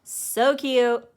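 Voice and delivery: bursting out with delight at a cute drawing. Real, not acted. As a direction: squeal over how cute it is.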